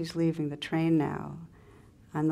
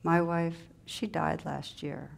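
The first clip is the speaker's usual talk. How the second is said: softer, slow and sullen, fading out. Acted. Widowed laborer tells the old man of loss, softly sullen. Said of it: "in a soft, sullen voice".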